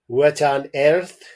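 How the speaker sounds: puzzled alarm, drawn out; startled doctor. Acted. Doctor startled by noise from the ceiling, slow and loud. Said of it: "said the doctor".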